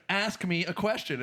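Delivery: lightly voiced insistent troll; bridge troll. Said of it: "And he's like".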